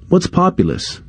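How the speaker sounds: put-on puzzled kid. A narrator's reading. Kid asking the teacher, high and puzzled. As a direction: ask it like a confused schoolboy.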